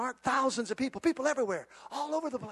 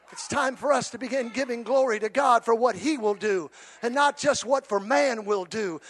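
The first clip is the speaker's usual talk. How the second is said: ordinary talk, nothing marked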